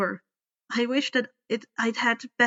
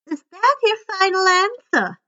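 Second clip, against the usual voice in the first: much higher, loud taunt; menacing ultimatum; 9 semitones higher, 6 dB louder than usual. A narrator's reading. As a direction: give him one last chance. Fury's last threat.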